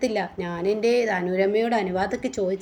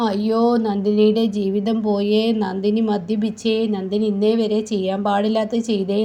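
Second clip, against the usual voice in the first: loud wailing; 4 dB louder than usual. Acted. Drunk Nandini wailing her ruin aloud. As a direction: cry it out for the house to hear. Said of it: "ഈ കരച്ചിൽ കേൾക്കുമ്പോൾ".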